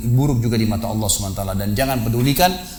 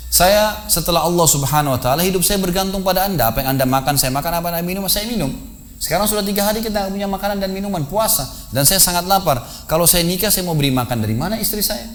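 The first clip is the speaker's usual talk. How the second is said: pleading disciple; 7 semitones higher than usual. Retold or imitated. Starving disciple pleads to teacher.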